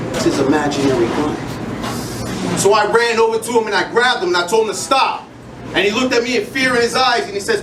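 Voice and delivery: rhythmic spoken word performance; spoken word delivery with building intensity; slam poetry recital. Acted. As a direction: perform it like a slam poem on stage.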